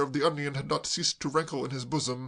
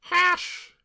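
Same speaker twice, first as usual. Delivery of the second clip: put-on much higher, slow wretched girl; tearful girl; 6 dB louder than usual. Claire sobbing to Braddock, high tearful wail.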